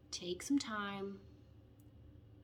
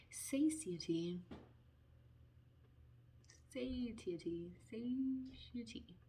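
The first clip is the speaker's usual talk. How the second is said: slow drawn-out reading; 9 dB quieter, much slower than usual. Shown as a demonstration. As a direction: stretch each syllable out slowly. Reading oracle card slowly.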